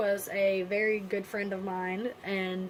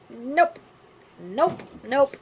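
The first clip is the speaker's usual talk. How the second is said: higher, louder repeated nope; panicked nopes; 4 semitones higher, 6 dB louder, slower than usual. Retold or imitated. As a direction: fire off nope in retold panic. Retelling refusing to face the news.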